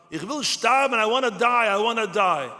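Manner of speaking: crying out in despair, pitch climbing; rising anguished cry. Retold or imitated. Man in Auschwitz crying out at night, anguished. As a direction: plead to die, voice lifting. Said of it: "I started to cry out".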